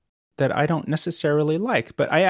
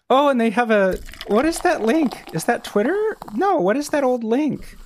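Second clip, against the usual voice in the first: amused; 8 semitones higher than usual. Real, not acted. Mocking the old website.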